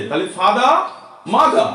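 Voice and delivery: ফাদা, মাদা ending in an open "aa"; silent final r. Shown as a demonstration. Teacher models the words for pupils, silent final r. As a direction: drop the r at the end of ফাদা and মাদা. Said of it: "ফাদার বা মাদার না".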